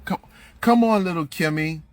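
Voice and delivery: hammed-up syrupy kindergarten teacher; mock sweet teacher. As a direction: coax a small child into class, fake-nice. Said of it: "this is how they fucking talk".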